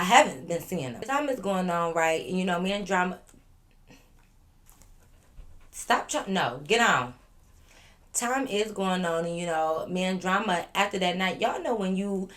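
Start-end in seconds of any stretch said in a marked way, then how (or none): 5.7-7.1 scolding a pet. Real, not acted. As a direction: shoo the pet away mid-story. Shooing a pet mid-video.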